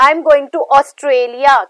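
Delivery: extra weight on "Australia", lighter on "am"; stress on Australia. Shown as a demonstration. Teacher showing lexical stress to students, stressing "Australia". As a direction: lean on "Australia" as the stressed word. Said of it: "ऑस्ट्रेलिया पे ज्यादा stress out किया है".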